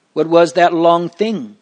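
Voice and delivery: sit up at a surprising sight; startled wonder. A narrator's reading. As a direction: read with mild astonishment. Startled discovery of lost roll.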